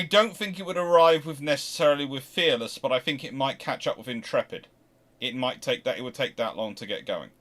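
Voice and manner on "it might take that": ordinary talk, nothing marked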